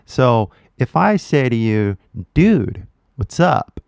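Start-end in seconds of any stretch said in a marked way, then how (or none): 2.3-3.8 California greeting, a bit higher and punchy; lightly demonstrated California accent. Shown as a demonstration. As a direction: demo a casual California "dude" for learners to copy. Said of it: "We're gonna mimic the accent".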